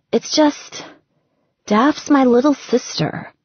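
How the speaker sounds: lightly voiced woman feeling guilty; Gretchen, lightly voiced. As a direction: plead her case gently, a bit guilty.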